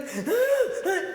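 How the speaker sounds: high, sobbing gasp imitating a child; hammed-up crying intake of breath; mock crying gasps. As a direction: imitate a little kid bursting into tears. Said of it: "he cried like a baby".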